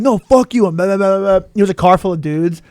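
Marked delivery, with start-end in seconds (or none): 0.0-0.7 defiant retort. Retold or imitated. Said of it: "And I'm like".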